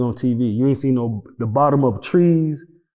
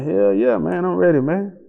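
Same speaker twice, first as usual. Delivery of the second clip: eager; 6 semitones higher than usual. Retold or imitated. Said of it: "I'm like".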